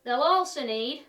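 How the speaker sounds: a cheery broad Yorkshire demo voice. Acted. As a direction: play up the broad Yorkshire for the viewers. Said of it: "doing the demonstration ... in Broad Yorkshire".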